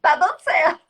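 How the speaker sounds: high, loud burst of triumph; mock celebration. Mother cheers her parenting working, in high, loud mock triumph. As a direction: playfully crow at a small parenting win.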